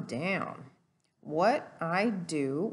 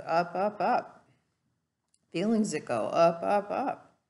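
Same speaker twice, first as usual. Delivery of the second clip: each up a little louder, rising with the word; climbing voice; 6 dB louder than usual. Shown as a demonstration. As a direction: let the voice climb like an escalator. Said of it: "going higher and higher".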